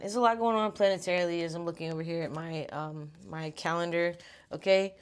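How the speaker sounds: breathless, talking between breaths. Real, not acted. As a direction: speak winded and out of breath. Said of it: "I'm out of breath".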